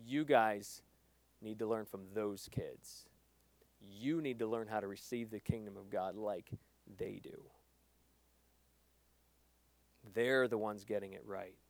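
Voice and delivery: Jesus softly correcting his disciples; gentle Jesus voice. Retold or imitated. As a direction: quietly tell them to learn from kids.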